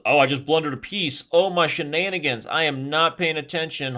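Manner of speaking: loud, high exclamation of dismay; dismayed outburst. Real, not acted. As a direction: cry out at your own blunder. Just blundered a piece.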